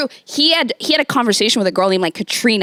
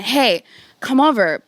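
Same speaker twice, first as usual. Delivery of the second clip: put-on drunk guy voice. Voicing the drunk ex calling.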